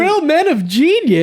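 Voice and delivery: high, slowed jingle echo; commercial jingle voice. Retold or imitated. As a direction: sing it back like the ad. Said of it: "that's a commercial".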